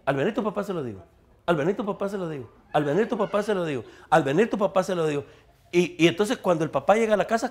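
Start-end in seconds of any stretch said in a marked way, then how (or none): 0.0-5.2 nagging mother. Acted. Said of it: "dice la mamá".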